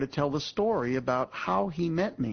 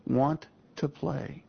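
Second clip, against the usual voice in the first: slow, tender invitation; much slower than usual. Shown as a demonstration. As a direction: stretch out want to play slowly. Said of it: "three most important words".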